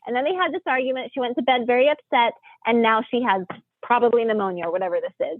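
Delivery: a touch of retold frustration; mildly angry. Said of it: "I'm all angry".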